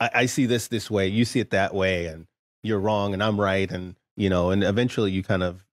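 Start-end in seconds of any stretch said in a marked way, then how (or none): none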